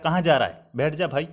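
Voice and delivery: softly coaxing, easing off at the end; affectionate. Shown as a demonstration. Teacher acting someone who wants your company, softly affectionate. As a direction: gently invite a friend to sit. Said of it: "वो आपको प्रेम से कह रहा है".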